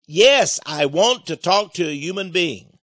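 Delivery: loud insistence. Retold or imitated. Repeating demand to machine.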